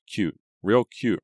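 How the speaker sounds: girl mocking a coworker's cowboy outfit; scornful. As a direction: sneer each word. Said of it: "Reva thought scornfully".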